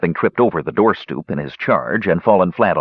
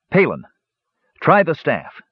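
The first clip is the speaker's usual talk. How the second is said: ordering; 7 semitones higher than usual. A narrator's reading. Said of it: "Tannen ordered".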